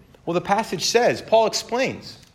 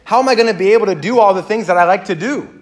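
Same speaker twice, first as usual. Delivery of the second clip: inner panic; 5 semitones higher, 7 dB louder, faster than usual. Retold or imitated. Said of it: "all I kept thinking was".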